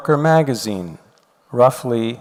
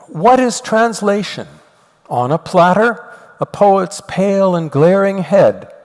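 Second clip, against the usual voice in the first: raised, measured recital of a verse; poem reading; 2 semitones higher than usual. Acted. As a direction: read the stanza like a poet reciting. Reads Nabokov's poem aloud.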